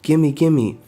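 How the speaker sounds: high, loud and grabby; greedy excitement. Acted. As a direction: gimme it like a treasure-hungry thief. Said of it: "And she's like".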